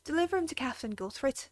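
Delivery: put-on lightly done Irish accent; a hint of an Irish stable keeper, easygoing. Stable keeper thanking the adventurer, light Irish accent. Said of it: "if you have an Irish accent".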